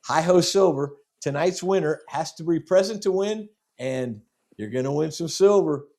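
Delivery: upbeat host hyping the prize; hyped giveaway announcement. Real, not acted. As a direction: sell the prize with showman energy. Host hyping silver coin prize.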